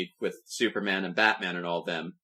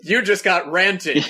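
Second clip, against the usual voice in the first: laughing; 8 semitones higher, 6 dB louder, slower than usual. Real, not acted. Laughing at a pun.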